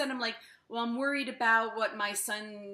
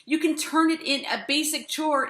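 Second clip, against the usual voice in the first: ordinary delivery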